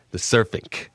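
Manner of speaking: gruff Brooklyn "surfing"; Brooklyn-accented echo of a gruff neighbor. Acted. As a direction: say "surfing" like an old Brooklyn guy, hard ending. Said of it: "He came from Brooklyn".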